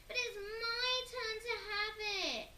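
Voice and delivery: high, loud yell. A narrator's reading. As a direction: yell indignantly. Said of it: "yelled Peter".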